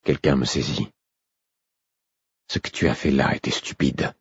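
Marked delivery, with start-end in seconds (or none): 2.5-4.1 delighted rebuke. A narrator's reading. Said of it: "La voix parlait d'un ton ravi".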